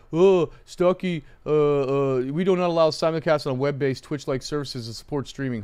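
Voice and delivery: sneering know-it-all commenter voice, lightly put on; mocking YouTube commenter. Streamer mocking YouTube haters, in a smug put-on voice. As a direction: parrot a smug commenter reading out the rules. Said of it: "are trying to say".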